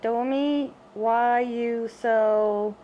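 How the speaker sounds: put-on lingering slow baby-talk opener; slow drawn-out coo. Owner cooing slowly at the cat Domi. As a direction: stretch it slowly, cooing at the pet.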